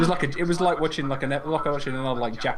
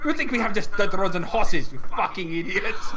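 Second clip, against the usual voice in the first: indignant Greek student; 4 semitones higher, 3 dB louder than usual. Retold or imitated. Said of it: "She was like".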